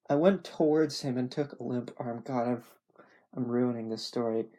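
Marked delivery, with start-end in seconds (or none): none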